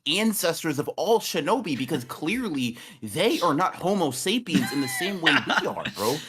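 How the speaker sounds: excited rant. Real, not acted. Heated absurd rant, high voice.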